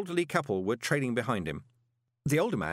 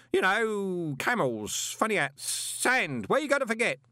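booming; 11 semitones higher, slower than usual. A narrator's reading. Parker booming his life story at Moist. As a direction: boom it like nobody's listening. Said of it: "grasp of volume control".

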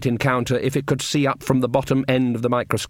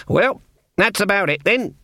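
put-on wry resignation, old witch; 8 semitones higher than usual. A narrator's reading. Granny, resigned.

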